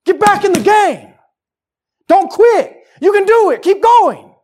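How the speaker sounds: high, full-force coach's yell; urgent sideline bellowing, acted; barking coach. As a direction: shout a player back into action. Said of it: "we need a coach to grab us".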